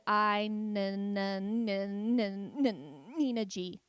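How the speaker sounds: stuck on the first sound of the name; stuttering. Retold or imitated. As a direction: repeat the N low until the name gets out. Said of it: "when you stutter".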